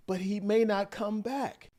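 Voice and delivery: restrained retelling, no shouting; imitated calm plea. Wife turns to her mom on the phone, controlled plea. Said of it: "in a very calm voice just now".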